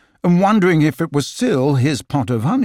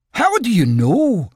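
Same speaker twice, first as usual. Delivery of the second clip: Rabbit voice; 9 semitones higher, 3 dB louder than usual. Acted.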